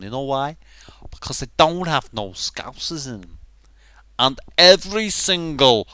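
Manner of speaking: animated Scouse rant; indignant Scouser, emphatic and aggrieved; Scouse accent. Acted. Aggrieved Scouser complaining about Star Wars, Scouse accent. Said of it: "I'm stuck in Scouse now".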